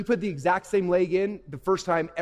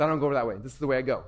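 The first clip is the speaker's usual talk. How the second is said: slightly lowered, unmoved elephant voice; lightly voiced elephant; 6 semitones lower, faster than usual. Elephant answering the frantic monkey, lightly voiced and low. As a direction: refuse calmly, a hint of lumbering elephant. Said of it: "The elephant's".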